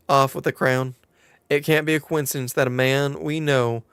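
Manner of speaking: put-on storytelling in a light southern accent. Quest-giver explains the stolen crown to adventurer, southern accent. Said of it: "Now can I escape the southern accent".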